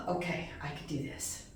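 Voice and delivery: soft, low talk to oneself; a small, subdued pep talk; retold self-reassurance. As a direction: quietly psych yourself up. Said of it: "And I'm thinking".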